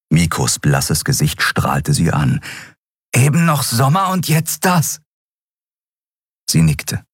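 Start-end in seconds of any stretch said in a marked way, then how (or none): 3.1-5.0 put-on high, eager boyish voice; Miko, high and wondering; young Miko. A narrator's reading. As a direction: lift it up high like an excited youngster.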